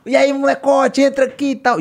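calling out. Retold or imitated. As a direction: call him over, loud and friendly. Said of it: "E ele". (chamado alto e animado)

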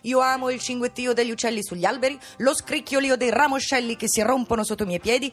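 nasal voice. Acted. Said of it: "uso la voce nasale come nel spettacolo".

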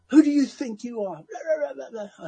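high-pitched affronted imitation; mock angry indignation. Imitating the man asked to turn it off, mock indignant. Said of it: "he did it so angrily".

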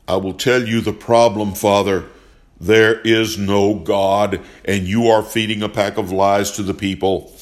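loud, cold, angry declaration; angry accusation. Acted. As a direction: hammer each word at him. Furious father accuses the priest.

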